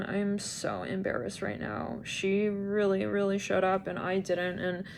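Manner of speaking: slow, soft ashamed murmur; embarrassed hush. Retold or imitated. Someone ashamed they didn't shovel snow, slow soft murmur. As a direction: mumble it slowly in shame. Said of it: "They're like".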